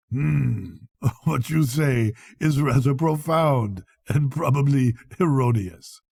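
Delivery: with a laugh. Acted. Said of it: "with a laugh".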